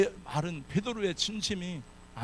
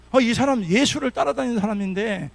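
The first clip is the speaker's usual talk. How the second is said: loud, higher accusing call; accusing servant girl; 5 semitones higher, 6 dB louder than usual. Acted. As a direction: point him out to the crowd. Maid accuses Peter.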